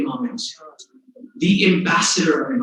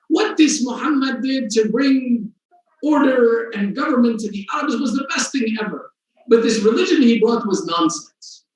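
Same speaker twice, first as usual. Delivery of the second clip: atheist's scornful declaration; 5 semitones higher than usual. Retold or imitated. Atheist mocking the Prophet's religion.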